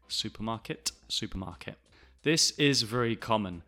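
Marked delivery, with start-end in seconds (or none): 0.1-1.8 "supermarket" with an unreleased last T; dropped final T. Shown as a demonstration. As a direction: end "supermarket" on "-ke". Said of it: "do not pronounce".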